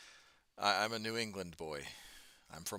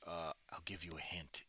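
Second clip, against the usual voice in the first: conspiratorial whisper; 5 dB quieter than usual. Real, not acted. Whispering a hint to chat about his home state.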